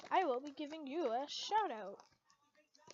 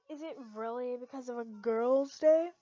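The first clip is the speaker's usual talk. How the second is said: suspicious; 8 dB louder than usual. A narrator's reading. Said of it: "she asked suspiciously".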